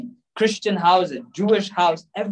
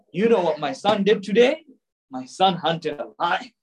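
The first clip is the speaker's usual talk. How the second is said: proud father; 2 semitones lower than usual. Retold or imitated. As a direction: show off the son like a proud father. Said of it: "he was so proud about it".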